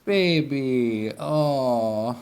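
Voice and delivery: drawn-out doting coo; cooing pet talk. Real, not acted. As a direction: melt over a cute animal. Cooing to the animal.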